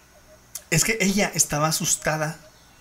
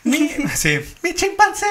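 panicked caller; 11 semitones higher, 4 dB louder than usual. Retold or imitated. Retold frantic 911 call.

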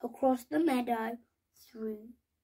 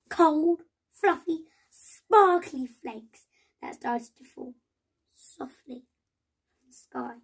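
building wonder; 2 semitones higher, 9 dB louder than usual. A narrator's reading. Revealing the first snow to the children, with growing wonder. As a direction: paint the snow with growing delight.

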